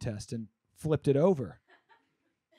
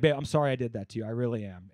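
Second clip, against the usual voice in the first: mock comforting; 5 semitones lower, 5 dB quieter, faster than usual. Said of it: "she came up and comforted me".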